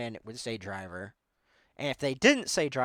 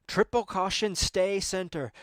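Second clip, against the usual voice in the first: measured call of the rally notes, lightly mimicked; co-driver call; 5 semitones higher than usual. Co-driver calling notes to Sammy, calm. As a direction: read the pace note like a calm co-driver. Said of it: "this guy, he's like".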